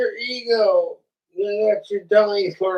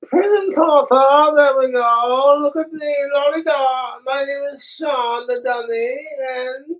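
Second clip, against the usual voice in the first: high squeaky ventriloquist dummy voice; 6 semitones higher than usual. Acted. Dummy Sean introducing himself, high puppet voice. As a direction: pitch it up as the cheeky dummy.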